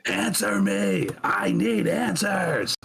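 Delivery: high, drawn-out pleading cry; frantic plea into the water, stretched out; desperate scream. Acted. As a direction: Marge howling at the salt lordess, slow and high. Marge screaming into trough.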